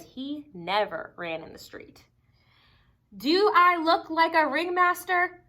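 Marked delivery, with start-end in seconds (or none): 3.2-5.4 high, louder excited question; eager question. Acted. Child asking mother before the show, high and eager. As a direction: ask it brightly, eager to perform.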